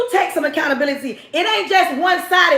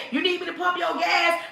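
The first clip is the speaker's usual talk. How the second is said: softer smooth offer; flirting man; 7 dB quieter than usual. Retold or imitated. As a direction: ease it out like a gentle pickup line. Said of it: "he spit some crazy game".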